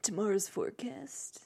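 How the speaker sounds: whispered, quiet menace; Sid impression. Shown as a demonstration. Answering how Sid sounds, creepy whisper. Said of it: "what does Sid sound like?".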